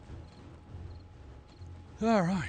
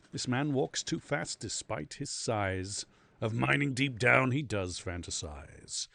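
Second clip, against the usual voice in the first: rhyming recital; 4 dB louder, slower than usual. Acted. Reciting rhyming character bio.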